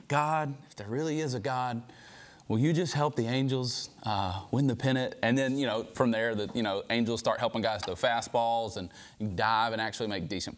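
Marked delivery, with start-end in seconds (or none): 0.1-5.1 put-on kid's prayer. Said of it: "he's praying".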